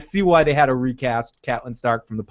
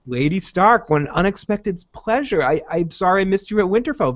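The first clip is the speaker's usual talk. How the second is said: higher-pitched, courteous greeting; very friendly; 5 semitones higher than usual. Retold or imitated. Lord greets Lady Stark unexpectedly at the inn, very friendly. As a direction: imitate a pleased, friendly lord's hello. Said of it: "Very, very friendly".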